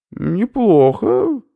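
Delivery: slow, high, chewing through the word; mouth full. Acted. Professor tastes a snail, talking with mouth full. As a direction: talk round a mouthful of snail. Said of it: "с набитым ртом".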